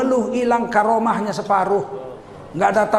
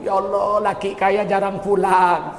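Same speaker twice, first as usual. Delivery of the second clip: mock complaining; slower than usual. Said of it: "Lakimu kaya kau ngeluh".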